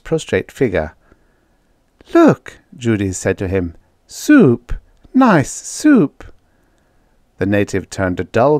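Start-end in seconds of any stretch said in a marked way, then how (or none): 2.1-2.6 high, loud attention-getting call; girl coaxing a creature, pitched high. A narrator's reading. Judy to a fallen native she wants to feed, coaxing. 4.1-6.2 high, sing-out coaxing; coaxing girl. A narrator's reading. Judy offers soup to the weakened native, coaxing.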